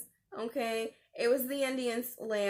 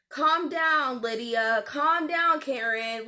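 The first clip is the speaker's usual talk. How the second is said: scolding; 2 semitones higher, 4 dB louder, slower than usual. Retold or imitated. Scolding a complaining customer.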